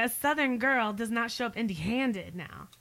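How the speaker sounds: Southern Oklahoma accent; Okie accent. Shown as a demonstration. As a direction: put on the Okie twang for them. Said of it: "Is that the Okie sound?".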